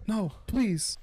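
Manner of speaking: TV drama pleading. Acted. Abandoned partner begging Dennis to stay, high mock plea. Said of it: "There's some drama television".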